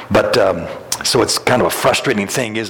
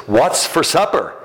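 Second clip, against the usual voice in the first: calling out; 7 semitones higher than usual. Retold or imitated. Husband asking right behind her.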